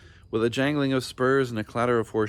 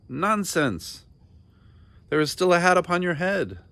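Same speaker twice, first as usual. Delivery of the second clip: furious king; 9 semitones higher, 5 dB louder than usual. A narrator's reading.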